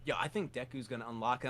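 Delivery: low, soft hushed fan excitement; lightly voiced fan in the dark; whispered fan comment; mimicking a fan.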